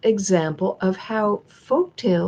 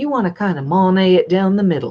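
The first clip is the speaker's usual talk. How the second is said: rough attempt at a North Carolina accent; 3 dB louder than usual. Quoting a man's advice, trying to do his North Carolina accent. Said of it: "I can't really do his North Carolina accent".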